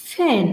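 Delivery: "ফ্যান" as pen, P bursting with air; aspirated P. Shown as a demonstration. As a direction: puff out the first sound of "ফ্যান". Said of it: "aspirated সাউন্ডে পেন হবে". ("ফ্যান"-এ প মহাপ্রাণ করে)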